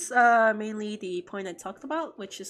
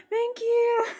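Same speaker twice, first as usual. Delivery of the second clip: much higher, squealing thank you; touched squeal; 13 semitones higher, 3 dB louder than usual. Real, not acted. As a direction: gush with delight. Touched by fan praise.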